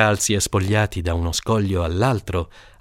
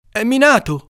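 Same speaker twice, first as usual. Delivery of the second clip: put-on kid's warning; 5 dB louder than usual. A boy warns.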